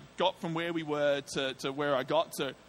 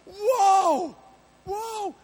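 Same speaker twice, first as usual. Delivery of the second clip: high, alarmed, recoiling; startled whoa; 8 dB louder than usual. Retold or imitated. Driver startled as the hitchhiker screams at him, high alarmed. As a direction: back away in shock.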